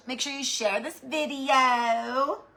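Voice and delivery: slow, oddly put-on sign-off; weird funny voice. Vlogger asking viewers to share, slow goofy put-on voice. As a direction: drag out the plug in a goofy voice. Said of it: "I don't know why I said it like that".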